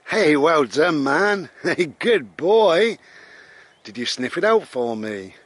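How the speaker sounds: high, loud doggy praise; retelling praising the dog, high and loud. Retold or imitated. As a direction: gush over the dog.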